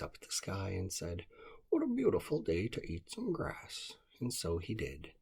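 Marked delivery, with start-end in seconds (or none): 1.7-4.0 high little groundhog voice. Acted. Groundhog greeting the morning, high bright voice. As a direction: lift it up high and cheerful.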